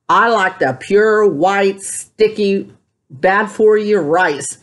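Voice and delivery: slow, drawn-out, relishing each word; savoring confession. Retold or imitated. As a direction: linger on every word like a treat. Confessing love of white rice.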